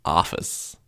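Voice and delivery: "Office" with an open American ah vowel; mock American "Office", flat ah sound; terrible American accent. Shown as a demonstration. Demonstrating to a friend, American "Office" with ah. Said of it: "terrible American accent".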